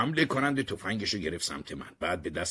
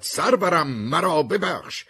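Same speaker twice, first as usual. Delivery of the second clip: loud, high cry for forgiveness; shouted, high-pitched plea; pleading shout; 10 semitones higher, 8 dB louder, slower than usual. Acted. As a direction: cry out to your lord, much higher and louder, drawn out at the end.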